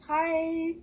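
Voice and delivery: a bright, high, friendly "Hi"; cheery little gnome hello. Retold or imitated. Cute gnomes recognizing the visitor, lightly voiced chirpy hello. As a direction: greet her like a happy tiny creature. Gnomes greeting her happily.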